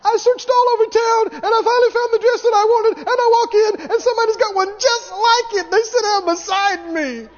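high, tearful whiny complaint; whiny complainer. Retold or imitated. Woman wailing that someone wore the same dress, high tearful whine. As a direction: wail it like a wounded diva.

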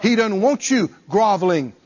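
high, loud, rising sermon fervor; preaching at full force. Acted. Preacher exhorts believers that they never need to beg, preaching at full force. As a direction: lift the congregation with fervent preaching.

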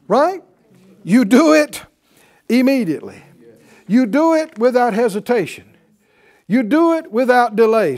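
preaching at full force. Acted. Preacher exhorting congregation.

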